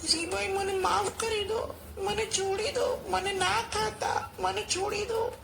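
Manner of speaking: high little mouse voice begging; pleading mouse. A narrator's reading. Mouse begs the lion to let him go, high pleading. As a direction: beg for mercy in a tiny high voice. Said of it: "ઉંદર કહે".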